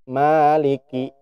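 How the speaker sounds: "Maliki" slow with no air on the kaf; unaspirated kaf. Shown as a demonstration. Teacher shows the wrong kaf to students. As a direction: kaf held back, no puff. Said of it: "Nggak gerak ya".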